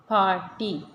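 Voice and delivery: पार्टी broken as पार, टी; split into syllables. Shown as a demonstration. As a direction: say पार्टी in two separate beats. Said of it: "हिस्सों में पढ़ते हैं".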